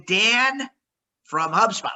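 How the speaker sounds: calm, unhurried repeat of the name; slow it down to sound confident. Shown as a demonstration. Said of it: "A little bit slower".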